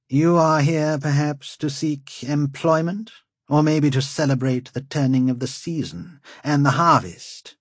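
proud, mocking lord; haughty lord. A narrator's reading. Lord Wold questions strangers.

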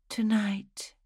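breathy unvoiced whisper. A narrator's reading. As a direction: whisper it secretly. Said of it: "she had whispered".

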